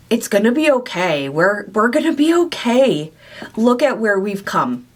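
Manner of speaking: emotional comfort. Real, not acted. Speaking to her past self, gently reassuring her and getting emotional. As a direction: soothe her younger self while choking up. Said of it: "I didn't mean to get emotional".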